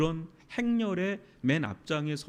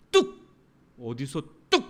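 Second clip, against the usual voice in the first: harsh scolding; 4 semitones lower, 4 dB louder than usual. Retold or imitated. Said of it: "얼마나 폭력적인 말입니까".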